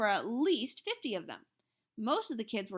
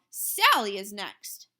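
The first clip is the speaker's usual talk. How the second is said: calling out; 8 dB louder, much slower than usual. A narrator's reading. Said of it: "another mother called".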